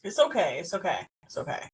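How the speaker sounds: pat him on the back with your voice; mock soothing. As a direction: cohost mock-consoling him over the painful memory. Mock consoling cohost.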